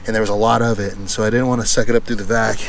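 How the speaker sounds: talking while out of breath; winded, pushing the words out. Real, not acted. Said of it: "Sorry, I'm out of breath".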